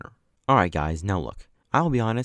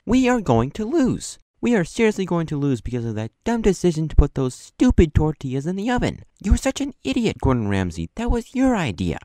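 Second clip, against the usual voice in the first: loud, high angry outburst; mad outburst; 8 semitones higher, 6 dB louder than usual. Retold or imitated. James blaming Gordon Ramsay, loud angry outburst. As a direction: blow up at your teammate, loud. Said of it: "James started getting really mad".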